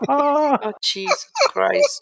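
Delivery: high, slow, disbelieving groan; incredulous. Real, not acted. Player reacts to the roar.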